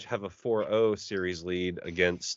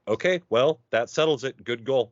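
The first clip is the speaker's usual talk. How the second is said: higher, louder satisfied announcer; mock smug commentator; 5 semitones higher, 3 dB louder than usual. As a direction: declare it settled, smugly.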